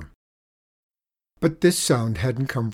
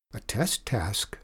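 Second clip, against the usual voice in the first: soft, slow and hushed; a quiet, careful question; softly; 2 semitones lower, 6 dB quieter than usual. Acted. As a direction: say it quietly so the teacher won't hear. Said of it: "she said softly".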